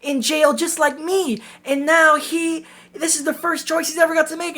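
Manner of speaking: high, earnest mock-teen voice, slowing down; whiny kid. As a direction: ham up a naive boy's lament. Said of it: "this kid who's like".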